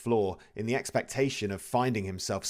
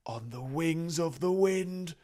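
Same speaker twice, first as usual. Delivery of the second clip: wailing ghost; 8 semitones higher than usual. A narrator's reading. The ghost lamenting its fate to Scrooge, high and wailing. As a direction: moan it like a doomed soul.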